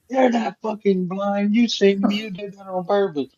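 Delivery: accusing lady. Retold or imitated.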